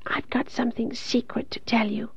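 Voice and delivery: very faint, thin whisper. A narrator's reading. Dying Carrie sharing a secret with Kathy, faint whisper. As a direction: whisper it weakly, as if from far away. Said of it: "Her voice was so faint".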